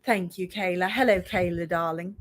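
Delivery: posh British character voice; drawling British accent. Pretend. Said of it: "Oh, perfect accent".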